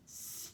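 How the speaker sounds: "Stable" pulled apart as sss-t, aaay-bul; sounded out. Shown as a demonstration. Teacher has pupils listen for the vowel, "Stable" sounded out. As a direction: isolate the st of "Stable", then hold the vowel. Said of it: "Let's listen for the vowel".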